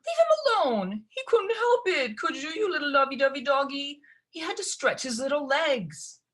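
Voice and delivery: put-on sharp high snap that melts into baby talk for the dog; snapping, then cooing. Gerda snaps at Lucy, then coos at the dog. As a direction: scold her sister, then coo at the pet. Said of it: "snapped at Lucy".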